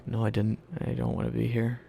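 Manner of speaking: retold outburst. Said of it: "I'm like".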